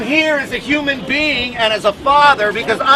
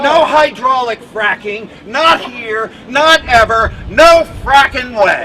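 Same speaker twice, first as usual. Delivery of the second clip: roaring rallying speech; 4 dB louder than usual. Real, not acted. Rally chant against fracking.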